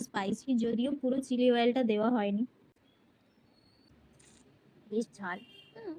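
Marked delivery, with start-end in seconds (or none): 4.9-5.9 gasping through chili heat; slow, mouth on fire; mouth burning from spicy food. Real, not acted. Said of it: "নাক থেকে জল বেরিয়ে যাচ্ছে".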